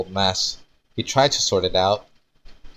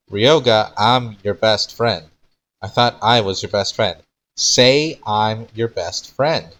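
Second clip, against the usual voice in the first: pleading; 2 semitones higher, 5 dB louder than usual. Acted. Desperate plea to friend.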